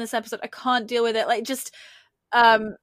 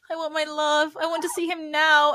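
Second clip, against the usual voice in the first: higher-pitched mock whine; retold whining; 4 semitones higher than usual. Imitating a smitten woman demanding her love, whining. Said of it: "like, whining".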